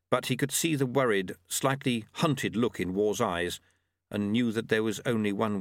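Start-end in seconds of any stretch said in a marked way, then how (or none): none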